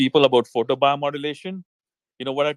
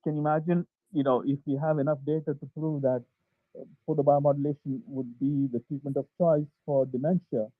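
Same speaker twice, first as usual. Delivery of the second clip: muffled, like through a wall; 3 semitones higher than usual. Real, not acted. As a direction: sound muffled and far off. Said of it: "it seems like you sound muffled".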